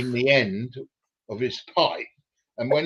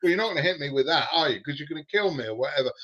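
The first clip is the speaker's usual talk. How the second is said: nonchalant; 4 semitones higher, much faster than usual. Retold or imitated. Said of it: "gone very nonchalant".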